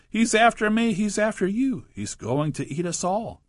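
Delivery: climbing the wall in fright, voice up high; panicked shrieking. A narrator's reading. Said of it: "the dentist shrieked".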